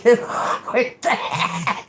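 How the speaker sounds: very slow sarcastic drawl; slow sarcastic send-off; sarcastic good luck. Retold or imitated. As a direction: drag it out, mocking. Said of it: "I said".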